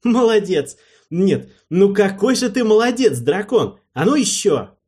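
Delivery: high, loud delighted cheering; shower him with thrilled praise; rapturous praise. Acted. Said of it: "восторженный голос".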